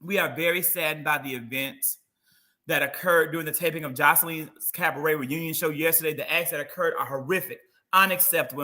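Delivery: poor sad voice. Retold or imitated. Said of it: "read Amber in her poor, sad voice".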